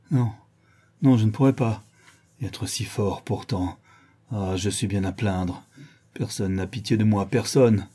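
dejected lament, near tears; self-pitying. Acted. Fallen brigand before he weeps, dejected. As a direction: give up and pity yourself. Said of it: "Et il pleura".

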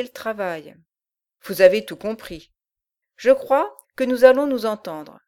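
loud gruff giant voice; a menacing brute giving orders. Acted. Bolbec the giant speaks.

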